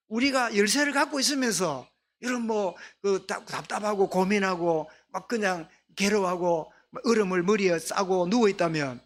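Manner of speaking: usual speaking voice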